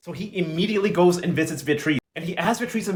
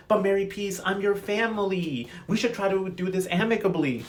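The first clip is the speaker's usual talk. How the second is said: fake pleading; 3 semitones higher, 5 dB quieter than usual. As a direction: lay on the fake family guilt, softly. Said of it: "fake-ass performance that Fabiana put on".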